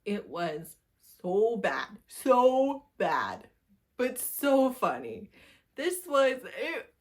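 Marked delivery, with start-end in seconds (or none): 1.2-6.9 louder and higher, laughing through it; cackling at a terrible read. Real, not acted. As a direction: crack up at how bad it was.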